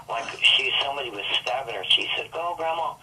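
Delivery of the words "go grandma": retold hysterical scream. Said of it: "She was screaming".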